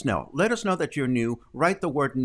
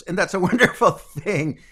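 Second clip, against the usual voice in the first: laughing; 6 semitones higher, 6 dB louder than usual. Real, not acted. Delighted greeting of a viewer.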